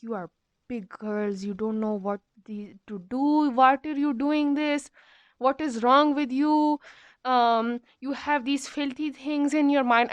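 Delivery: mildly voiced scolding headmistress; ranting headmistress. Headmistress rants at the class about the meme, mock scolding. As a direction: imitate a headmistress telling off her class, lightly. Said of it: "She goes on a rant".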